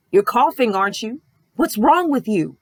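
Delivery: jab each question at him; imitating a rude therapist. Therapist confronting coughing patient in waiting room, mock accusing. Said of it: "the attitude I'm emulating and I'm imitating here".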